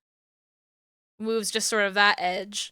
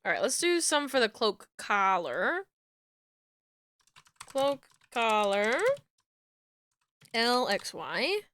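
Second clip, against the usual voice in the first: hiccuping between words; with hiccups. Real, not acted. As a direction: talk through the hiccups. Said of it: "Excuse my hiccups".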